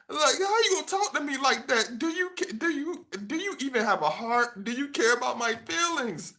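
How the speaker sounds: high mock wounded voice; mock hurt woman. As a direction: whine it up high, playing the victim.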